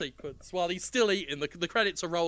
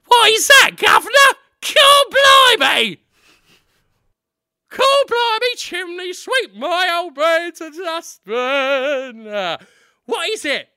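high, loud cockney lad; squeaky cockney chimney sweep; high, excited Cockney urchin voice; cockney boy; 11 semitones higher, 12 dB louder, slower than usual. Acted. Daniel Radcliffe as cockney boy.

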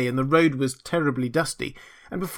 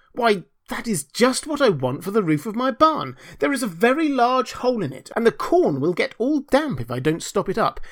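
grasping, pompous miller; 3 semitones higher than usual. Acted. Miller asking Hans for his plank, pompous. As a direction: claim it as if by noble right.

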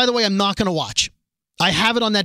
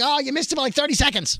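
apologetic; 8 semitones higher than usual. Retold or imitated. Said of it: "You're like".

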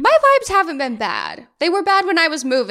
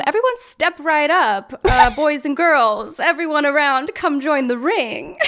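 ringmaster voice; 2 semitones higher, 3 dB louder than usual. Pretend. Circus host calling the crowd.

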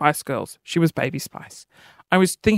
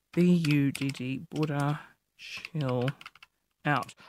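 muttering while typing; 5 semitones lower, 10 dB quieter, slower than usual. Real, not acted.

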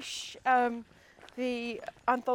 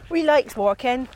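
put-on country accent, louder; rural accent; 7 dB louder than usual. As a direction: slip into a jokey rural accent. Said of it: "I've got the accent stuck now".

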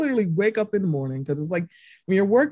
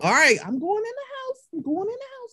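hurried retreat; 13 semitones higher than usual. Retold or imitated. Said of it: "I'm like".

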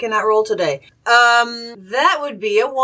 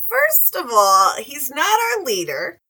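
smoker's rasp; 6 semitones higher than usual. Acted. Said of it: "get my smoker's cough going".

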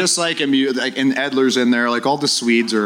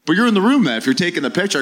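high, louder gotcha disbelief; incredulous retort; 8 semitones higher, 3 dB louder, faster than usual. Retold or imitated. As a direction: pounce on the contradiction, voice shooting up. Kess catches the flaw, incredulous.

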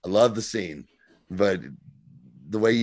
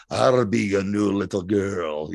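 mock sweet girl; slower than usual. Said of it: "he's like".

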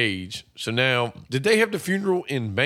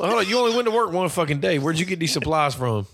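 higher-pitched mock disbelief; incredulous challenge; 4 semitones higher than usual. Challenging a man who offers Valium, incredulous. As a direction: question him sharply, pitched up.

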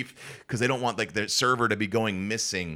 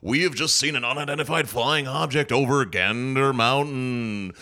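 radio announcer voice. Shown as a demonstration. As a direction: announce it like a loudspeaker host. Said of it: "they had me do it because I had the radio voice".

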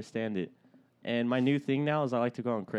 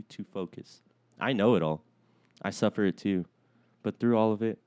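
reading with a blocked nose; stuffed-up voice, read dramatically; stuffy nose; 3 semitones lower than usual. Real, not acted. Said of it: "My nose is stuffed up".

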